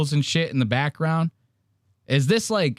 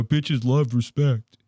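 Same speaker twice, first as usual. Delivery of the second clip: slow corny quote; slower than usual. Retold or imitated. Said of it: "They go".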